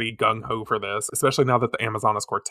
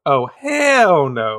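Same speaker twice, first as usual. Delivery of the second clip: mock refusal; 2 semitones higher, 7 dB louder, much slower than usual. Villains fleeing, acted reaction.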